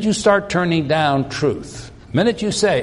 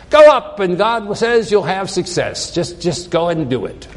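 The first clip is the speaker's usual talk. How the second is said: sarcastic; 2 semitones higher than usual. Retold or imitated. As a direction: toss off a sarcastic go-ahead, punching the first words. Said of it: "just sarcastically says".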